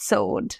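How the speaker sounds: sewed like "sohd", softly; correct pronunciation. Shown as a demonstration. Teacher repeating the model for learners, correct pronunciation. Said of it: "এটার উচ্চারণ হবে".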